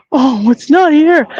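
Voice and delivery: high, slow mock-whiny disappointment; upset young woman. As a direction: mimic a distraught girl, drawn out. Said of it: "this is how she talks".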